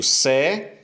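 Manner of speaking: "secretaria" split into se, cre, tá, ria; "secretaria" syllable by syllable with pauses, ending on one-piece ria; syllable division. Shown as a demonstration. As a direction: say "secretaria" in four separate chunks, RIA kept together. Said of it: "Como é que a gente divide".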